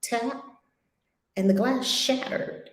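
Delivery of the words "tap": soft, spaced-out taps in words; light tapping. Shown as a demonstration. Showing how she tapped on the glass, softly. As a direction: say each tap softly and separately. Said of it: "tapped on the glass with her finger like this".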